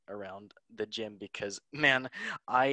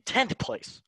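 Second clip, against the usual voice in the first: high incredulous jab; mock disbelief; 12 semitones higher, 6 dB louder than usual. Real, not acted. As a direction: squeak it in mock shock. Mocking Barcelona's rank.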